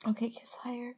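soft, lingering whisper; hushed coaxing; intimate whisper. Pretend. Intimate instruction to partner.

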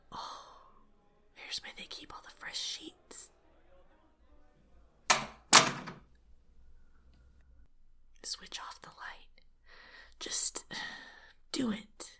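very soft, hushed whisper; secretive, barely voiced murmur; sneaky whisper. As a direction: whisper it while sneaking about. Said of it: "Why am I whispering?".

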